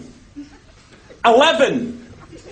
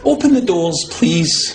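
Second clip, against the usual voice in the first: polite request; 9 semitones lower, slower than usual. Shown as a demonstration. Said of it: "Maybe we should just say please".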